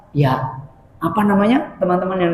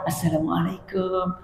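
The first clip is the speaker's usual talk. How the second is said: slow, quiet, devout salaam; soft, pious greeting; 12 dB quieter, slower than usual. Shown as a demonstration. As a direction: greet him softly like a pious man. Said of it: "orang soleh ini". (salam pelan dan lembut)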